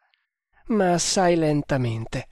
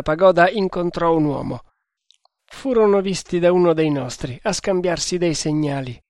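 a hint of a suspicious Indian sentry; lightly voiced temple guard, wary; 3 dB louder than usual. Two guards compare what they heard, lightly voiced sentry. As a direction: voice a guard who thought he heard something.

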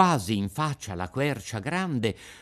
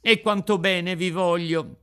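a bit higher, fond puppet voice; lightly voiced grateful puppet; 7 semitones higher, 4 dB louder than usual. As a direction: gush affection to the fairy. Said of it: "disse il burattino". (burattino affettuoso, voce un po' più alta)

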